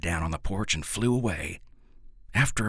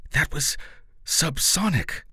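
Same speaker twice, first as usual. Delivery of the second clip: a sharp, higher snap of impatience; snapped; 9 semitones higher than usual. A narrator's reading. Professor correcting the hillbilly family, snapping higher. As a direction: bite the word off, annoyed. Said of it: "the professor snapped".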